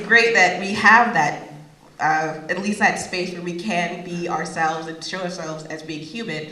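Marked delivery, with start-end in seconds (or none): none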